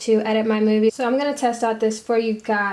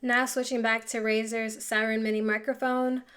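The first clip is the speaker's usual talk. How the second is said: close-miked, quieter USB mic sound; softer dry sound from a small desk mic; 8 dB quieter than usual. Real, not acted. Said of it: "the rest of this audio from this video is gonna be off of this microphone".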